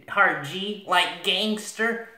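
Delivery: "gangster" drawn out slowly with a hard G; slow, playful "gangster" with a hard G; joking hard G. Shown as a demonstration. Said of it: "Next, we have hard G's".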